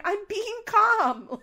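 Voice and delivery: high, loud, slow, through a laugh; laughing mock calm. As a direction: insist on calm while laughing. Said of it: "Kale's like".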